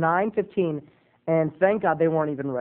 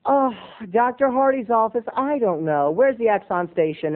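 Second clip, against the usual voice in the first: diva receptionist; 5 semitones higher than usual. Retold or imitated. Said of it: "bitchy and diva-esque".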